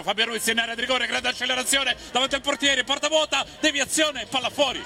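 rising, urgent play-by-play call; excited commentary. Real, not acted. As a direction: build the chance with pitch climbing. Live chance in highlights commentary.

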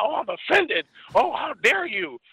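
hammed-up how dare you; mock offended. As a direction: parody someone clutching pearls. Mocking easily offended people.

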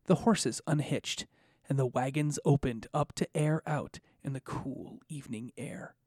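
calm storyteller narration; scene narration. Acted. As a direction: set the scene like a game master. Game master's scene setting.

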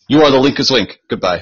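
a hint of a cold quiz hostess; game show host. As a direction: dismiss the loser like the stern hostess. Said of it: "that old gaming show".

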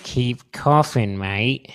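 slow, lightly Aussie taunt; mock Australian. Driver teasing a coughing passenger, mock Aussie.

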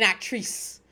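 "actrice" ending in a long "-eece"; affected actress. Retold or imitated. Podcaster nicknaming her dramatic nine-year-old, affected "actrice" with a long "ee". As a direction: say "actrice" with the second syllable stretched like "treece". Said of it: "I say actrice because of this".

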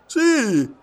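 high and loud, keen; eager yes. A narrator's reading. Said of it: "rispose Passepartout".

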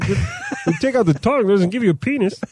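a hint of the strained girl voice. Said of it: "it hurts my throat".

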